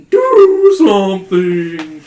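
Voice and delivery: loud, high, slow panicked plea; cries out. Acted. Patty yelling at the players for help. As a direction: yell for help as the blades close in. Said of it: "Patty cries".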